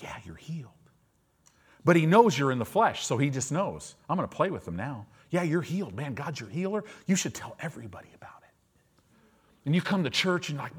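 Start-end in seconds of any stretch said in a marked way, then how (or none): 0.0-0.7 low sly whisper; the devil whispering a false reassurance; whispered taunt. Retold or imitated. Voicing Satan mocking softly. 4.1-8.3 sly tempter. Retold or imitated. Voicing Satan scheming.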